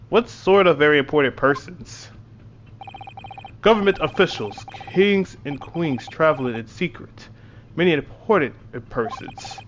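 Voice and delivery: proud Russian seaman in a lightly put-on accent; Russian sailor.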